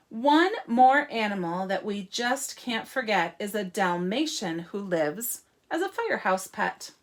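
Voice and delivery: lilting picture-book reading; story reading. Acted. Teacher introduces the firehouse dog to children, lilting story reading. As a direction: read clearly with emphasis on key words.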